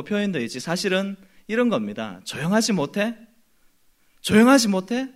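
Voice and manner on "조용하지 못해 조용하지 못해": raised, indignant mock rebuke; hushing someone with acted outrage; acted scolding. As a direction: scold a beggar into silence, building louder. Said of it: "이런 말투로".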